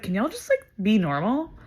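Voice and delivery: high-pitched exasperated appeal, retold; exasperated plea. Concertgoer to the pushy group behind, exasperated.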